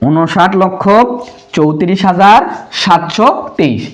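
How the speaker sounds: measured reading in spaced groups; model number reading. Shown as a demonstration. Teacher modelling the correct number for pupils, measured and spaced. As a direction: read the number in groups, pausing between them. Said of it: "তার মানে আমরা কি বলবো".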